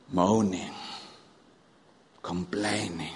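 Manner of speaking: low soft disapproving aside; quiet aside. Acted. Preacher summing up the grumbling, low and soft. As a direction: drop the voice, unimpressed. Comment after outcry.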